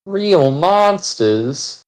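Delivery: "Real" drawn out slowly, rising tune on "monsters"; stress on REAL. Shown as a demonstration. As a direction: lean on "Real" slowly, as a punchline. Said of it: "Very different from monsters".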